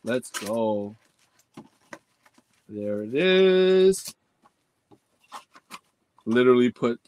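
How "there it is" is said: drawn-out, triumphant call; excited reveal. Real, not acted.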